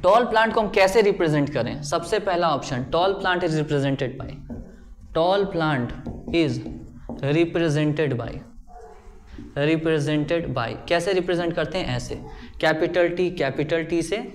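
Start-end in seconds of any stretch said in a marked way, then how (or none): 2.9-6.6 very slow, each word spaced for note-taking; slow dictation. Shown as a demonstration. Teacher dictating a definition to the class, very slow and spaced. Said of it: "teacher dictates notes slowly". 7.2-10.7 very slow, each word spaced for note-taking; slow dictation. Shown as a demonstration. Teacher dictating a definition to the class, very slow and spaced. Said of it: "dictating again, very slow".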